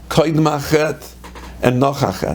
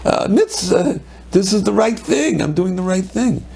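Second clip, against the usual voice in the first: much higher, incredulous voice of the unrepentant; mock self-righteous; 5 semitones higher than usual. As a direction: scoff as if accused of nothing, a mock protest. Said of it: "You'd say".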